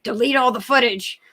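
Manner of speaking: mildly hammed-up urgent command; mock group urging. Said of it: "everybody's like".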